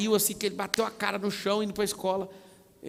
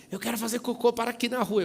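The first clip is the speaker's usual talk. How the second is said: higher-pitched imitated kid voice; pleading child; 7 semitones higher, 3 dB louder than usual. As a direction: plead like a child who urgently needs a stop. Acts out child's urgent request. (criança pedindo, voz mais aguda)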